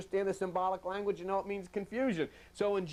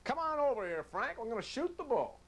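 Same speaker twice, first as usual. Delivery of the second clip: high, easy invitation to chat; casual buddy call; 6 semitones higher than usual. Retold or imitated. Preacher imitating a friend inviting Frank, casual call. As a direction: call a friend over to shoot the bull. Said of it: "You say".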